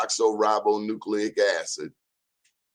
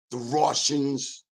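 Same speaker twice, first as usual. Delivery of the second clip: put-on slow, failed Russian accent on the Russians; a clumsy first stab at Russian; bad Russian accent; 4 semitones higher, slower than usual. Host tries a Russian accent on listeners, poorly done. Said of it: "That wasn't a good Russian accent".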